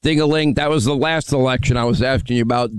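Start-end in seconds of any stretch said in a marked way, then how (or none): 0.0-0.5 mocking echo. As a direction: parrot the insult back at him. Host throws caller's insult back.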